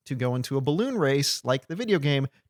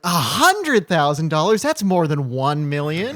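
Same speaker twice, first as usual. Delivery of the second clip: starstruck mock Alvin; 3 semitones higher, 4 dB louder, slower than usual. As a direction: drawl out the sum like it's a fortune. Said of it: "Alvin just gets, like, starstruck".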